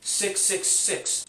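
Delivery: slow, stunned six six six; dawning shock. Real, not acted. Reviewer realizes the game's name hides the devil's number. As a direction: spell out each six as it dawns on you. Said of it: "Oh, wait, oh my god".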